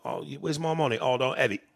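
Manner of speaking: mock London gangster accent; put-on London crime-film accent; British gangster accent. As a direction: imitate a British movie gangster. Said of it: "like, those Guy Ritchie movies".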